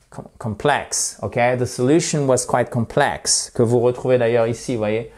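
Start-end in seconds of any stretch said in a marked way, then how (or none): 0.1-1.2 complex with the stress on plex; stress on second syllable. Shown as a demonstration. Teacher showing where to press, complex stressed on its second syllable. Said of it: "sur la seconde syllabe, vous avez le stress". 1.6-3.5 complex stressed on plex within the sentence; stress on second syllable. Shown as a demonstration. Teacher modelling the sentence for students, complex stressed on plex. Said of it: "c'est là où on appuie pour bien prononcer".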